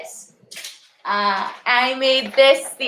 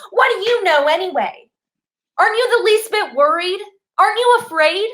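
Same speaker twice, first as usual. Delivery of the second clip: upset rising outburst; 4 semitones higher than usual. Acted. Contestant confronts the host.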